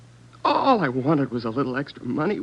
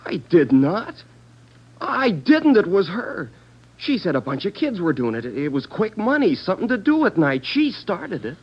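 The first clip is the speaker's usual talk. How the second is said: indignant denial; 4 semitones higher than usual. Acted. Suspect denies, blames girl.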